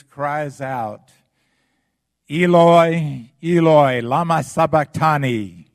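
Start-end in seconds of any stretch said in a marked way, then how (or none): 2.3-5.7 crying out, much higher and louder; full-voiced cry of despair; loud anguished cry. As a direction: cry it out to heaven in agony. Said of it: "in a loud voice".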